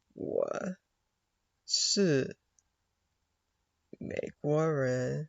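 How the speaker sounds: "我是美国人" slow, word by word; sounding out slowly. Shown as a demonstration. A learner sounding out 我是美国人 word by word. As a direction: spell out 我 是 美国人 slowly, each word apart. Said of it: "sounding out the Chinese words".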